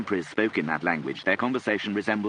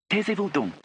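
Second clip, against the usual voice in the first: high-pitched theatrical order in French; dramatic command; 13 semitones higher than usual. A narrator's reading. Frid silences the chattering family, dramatic command. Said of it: "commanded Frid dramatically".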